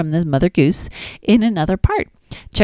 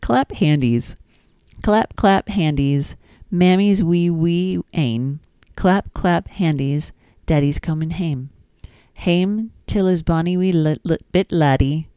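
Scottish lilt; slower than usual. Acted. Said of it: "That sounds Scottish".

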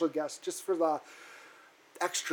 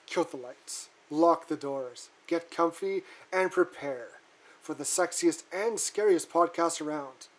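spooky host intro; slower than usual. Acted.

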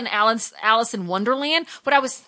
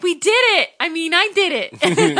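louder, higher mock boast of Bruno; proud boast; 9 semitones higher, 7 dB louder, slower than usual. Boyfriend bragging he solved the maze, mock proud. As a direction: play the boyfriend crowing over his win, laughing.

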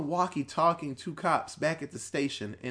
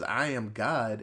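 slow, slightly lower imitation of a possessing voice; otherworldly voice; 5 semitones lower, slower than usual. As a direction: lightly mimic a possessed voice, drawn out. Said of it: "another voice goes through her body".

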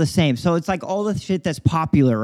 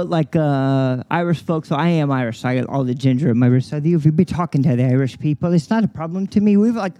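put-on Irish brogue; Irish accent. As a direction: talk in a thick Irish accent. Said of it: "That's a little too Irish for me".

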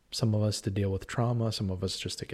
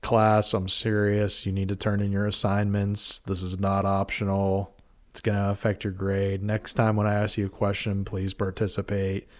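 professor voice. Acted. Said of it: "I can do a professor too".

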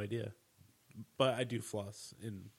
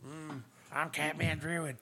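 slow, high put-on character voice; 6 semitones higher, slower than usual. Shown as a demonstration. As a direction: stretch it out in a silly character voice. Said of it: "my character voice".

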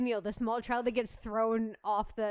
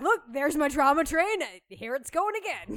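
mock excited sister; 3 semitones higher, 6 dB louder than usual. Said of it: "She's just like".

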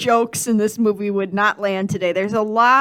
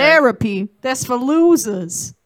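louder, dismissive scoff; scornful mock quote; 3 semitones higher, 6 dB louder, slower than usual. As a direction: scoff at the idea, stretching the end. Mocking fake quote of Will.

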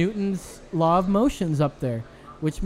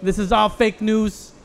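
put-on Brooklyn accent; 4 semitones higher, slower than usual. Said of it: "go with a Brooklyn accent on this one".

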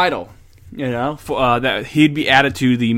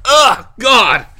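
attitude; 9 semitones higher, 6 dB louder than usual. Real, not acted. Disgust after sip.

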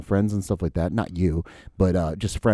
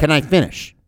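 higher-pitched, exasperated demand to talk; exasperated interruption; 6 semitones higher, 3 dB louder than usual. Retold or imitated. Deposed witness mimicking an interrupted exchange, exasperated. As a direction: cut in like a fed-up spouse arguing. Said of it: "like a bitter wife having an argument".

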